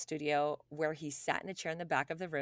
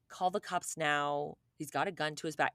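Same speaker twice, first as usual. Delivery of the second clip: very calm. Retold or imitated. Host imitates studio crew off camera, very calm. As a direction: say it calmly, with no panic at all. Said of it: "very calmly that they're like".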